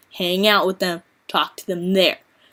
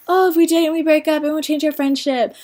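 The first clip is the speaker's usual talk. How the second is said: mocking ex; 6 semitones higher than usual. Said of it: "Whenever they're like".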